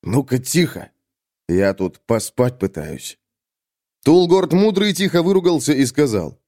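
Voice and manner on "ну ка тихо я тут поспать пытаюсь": tired grumble at noisy cellmates; creaky, weary cellmate. Acted. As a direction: shush them as someone trying to sleep. (усталое скрипучее ворчание)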